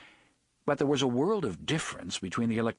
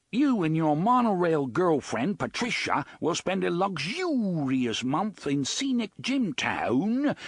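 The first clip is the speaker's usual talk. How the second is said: put-on bogus British accent; 7 semitones higher than usual. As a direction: bellow like a hammed-up British TV host. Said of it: "adopting a plummy and completely bogus British accent".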